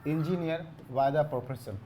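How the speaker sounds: the question read word by word, with pauses; slow dictation. Shown as a demonstration. Teacher reading out the next question, slowly. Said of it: "अगला question है".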